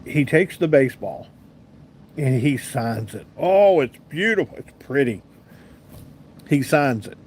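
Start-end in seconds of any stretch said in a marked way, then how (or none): 3.4-5.2 retold delighted admiration; admiring. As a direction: coo over a prized possession. Admiring the shiny signed baseball.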